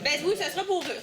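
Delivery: amused agreement while laughing. Real, not acted. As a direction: chuckle through the words. Guide laughs with audience.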